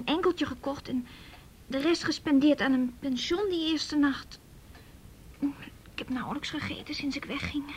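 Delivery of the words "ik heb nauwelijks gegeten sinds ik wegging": whisper. Real, not acted. Tired girl confesses hunger.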